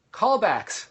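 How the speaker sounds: high, loud answer; audience callback answer. Pretend. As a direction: sing out the answer as the class would. Voicing the audience's answer to prompt.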